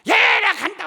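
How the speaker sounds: high shouted farewell; ghost's parting yell. Retold or imitated. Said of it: "하다".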